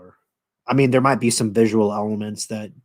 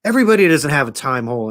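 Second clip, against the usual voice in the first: incredulous; 7 semitones higher than usual. Retold or imitated. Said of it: "And he goes".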